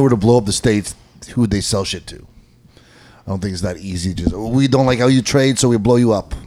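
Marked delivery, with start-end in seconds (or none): 4.3-6.3 a bad, barely there mock Chinese accent; lightly put-on Chinese accent, badly done; terrible Chinese accent. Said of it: "that was a terrible, terrible accent".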